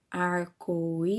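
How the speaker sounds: "arco-íris" slowly, with the í held long; long stressed í. Shown as a demonstration. Teacher showing pupils the strong syllable, í drawn out. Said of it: "ele saiu por mais tempo da minha boca".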